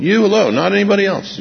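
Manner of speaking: "You alone" pitched high and pushed; fervent high "You alone, not anybody else"; emphatic preaching. Acted. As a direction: cry out "You alone" from the top of the voice. Preaching at full force.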